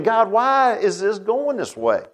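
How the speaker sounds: high, slow, drawn-out plea; mock frustrated questioning. Believer questioning God about life, mildly frustrated plea. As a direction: stretch it out as a puzzled complaint. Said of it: "frustrated with God maybe even in life".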